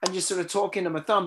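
muffled computer mic sound; talking inside a tin can. Real, not acted. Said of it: "sounding like I'm in a tin can".

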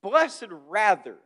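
each word drawn out slowly; slow emphatic reading. Shown as a demonstration. Preacher quoting Jesus to the crowd, slow and weighty. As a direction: lay the words down slowly and deliberately. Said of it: "He says in verse twenty-eight".

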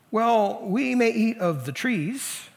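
high, slow, drawn-out concession; downplaying. Eve answering the serpent about the trees, downplaying. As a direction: concede it vaguely and unhurriedly. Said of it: "It's kind of generic".

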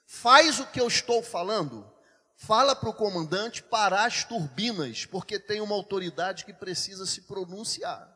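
firm, loud order that eases off; retold stern insistence; changed tone, commanding. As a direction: insist with authority, stressing each command. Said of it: "eu mudei o tom".

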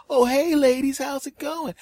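high-pitched innocent hello; put-on casual cheer; fake breezy greeting. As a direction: greet them as if nothing happened. Feigns casual friendly greeting.

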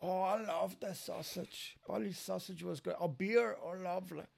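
light breathy imitation of locals' Newry accent; soft mock Newry accent, half whispered; mimicking Newry locals. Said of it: "I love your Nuri accent".

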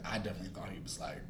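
dark hushed whisper. Real, not acted. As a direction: breathe it like a secret. Whispered dramatic verdict.

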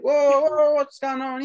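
high, rising mock-alarm "whoa"; alarmed bystanders. Friend retells onlookers stepping in on the gunman, mock alarm. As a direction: pitch it up like people rushing in to intervene.

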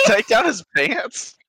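squeaky high strained voice. Acted. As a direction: strain while tugging something tight. Straining to pull off pants.

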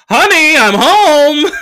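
high, slow sing-song greeting, far off his own voice; cheesy honey I'm home. Retold or imitated. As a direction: drawl it like a sitcom husband coming home. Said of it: "hit girls up like".

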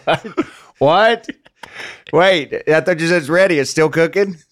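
high, loud panicked yelling; alarmed. Acted. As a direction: rush them, the sandwich is burning. Panicked about burning sandwich.

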